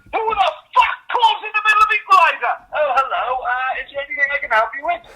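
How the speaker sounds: high angry then sweet phone voice; snarl, then turn polite for the phone; switching to posh phone voice. Retold or imitated. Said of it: "posh phone voice".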